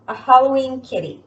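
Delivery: playful. Real, not acted. Playful cue for cat pose.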